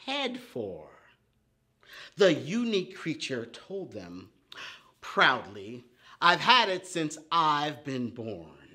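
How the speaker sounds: animated storybook reading; reading to children. Acted. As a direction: read it like a bedtime tale for little ones. Reads her poem to children.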